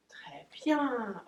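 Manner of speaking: long, lilting praise for a dog; drawn-out praise. Real, not acted. Owner praising her waiting dog, drawn-out encouragement.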